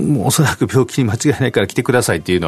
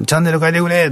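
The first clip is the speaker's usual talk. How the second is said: hard-of-hearing grandpa; 8 semitones higher than usual. Retold or imitated. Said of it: "難聴のおじいちゃんもおばあちゃんの声って大きい".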